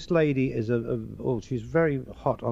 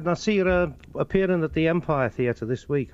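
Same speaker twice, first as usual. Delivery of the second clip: higher-pitched Scouse; Liverpool accent; 4 semitones higher than usual. Acted. Liverpool man who saw him on television, Scouse accent. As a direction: praise him as a Liverpool fan would. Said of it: "They have their own way of talking".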